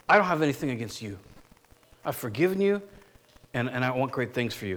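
hushed forgiving words to an enemy; tender sincere quote. Retold or imitated. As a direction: speak it like a heartfelt letter to friends. Paul's tender voiced letter.

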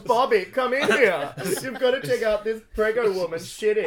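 retold call. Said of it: "Yeah, Bobby comes in".

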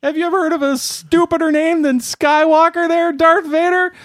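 mocking laugh-talk. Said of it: "He says".

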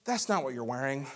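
gentle parental correction, acted out; kindly but firmly correct a little child. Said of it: "I say very kindly".

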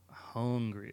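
"hungry" with a rounded "oh" in the first syllable; imitated vowels. Showing co-host the actor's vowels, "hungry" said as "hohn-gry". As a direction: mimic his odd vowel in "hungry", closer to "hohngry". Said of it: "he had these certain vowels".

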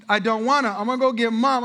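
put-on a pouting boy running to mom; whiny child. Son threatening to get mom.

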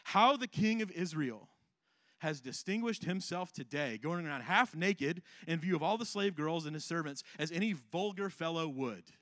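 a touch of scorn in the reading; sarcastic. Acted. Michal mocking David for dancing half naked, mildly sarcastic.

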